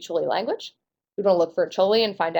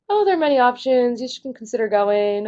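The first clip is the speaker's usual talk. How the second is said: higher, tentative suggestion; light demo of a hesitant speaker; 4 semitones higher than usual. Shown as a demonstration. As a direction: offer it without committing. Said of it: "versus a hesitant tone".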